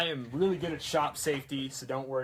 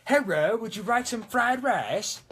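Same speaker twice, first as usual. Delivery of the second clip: high, loud mock East Asian accent; exaggerated stereotype East Asian accent; pitched-up parody East Asian accent; caricatured East Asian accent; 10 semitones higher, 7 dB louder than usual. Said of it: "differentiate that from just being like".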